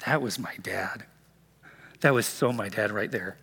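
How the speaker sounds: hushed whisper of recognition; whispered realization. Retold or imitated. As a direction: whisper it as it dawns on you. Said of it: "you realize after".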